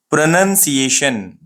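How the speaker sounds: "प्रोनंसिएशन" slow and joined, as pruh-nun-see-ay-shun; correct pronunciation. Shown as a demonstration. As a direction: model "प्रोनंसिएशन" slowly with "nun" in the middle. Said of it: "ये है". ("प्रोनंसिएशन" को धीरे, जोड़कर बोलें)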